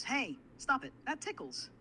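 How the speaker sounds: high mock protest, loud on the hey; acting tickled. Assistant acting tickled on request, high playful protest. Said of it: "Like, it's happening?".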